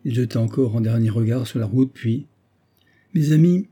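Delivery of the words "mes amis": 1 firm address. A narrator's reading. Colonel addresses friends firmly.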